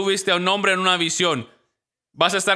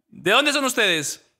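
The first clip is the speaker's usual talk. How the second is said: country man asking; 6 semitones higher than usual. Retold or imitated. Country man greets strangers.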